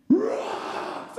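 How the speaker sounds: put-on excited child. Father imitating son finding rocks, thrilled high squeal. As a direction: squeal it like a thrilled little boy. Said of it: "he's like".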